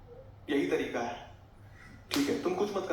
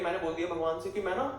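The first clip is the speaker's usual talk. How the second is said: higher, earnest mother's voice boasting of her vow; imitating mom; 5 semitones higher than usual. Mother telling son her temple vow, high and earnest. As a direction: play mom proudly explaining her pilgrimage plan.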